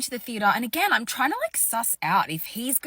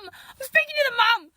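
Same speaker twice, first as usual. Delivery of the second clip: higher, louder, incredulous repeat; emphatic disbelief; 11 semitones higher, 6 dB louder than usual. Shown as a demonstration. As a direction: stress the absurdity of it. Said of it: "repeated with emphasis".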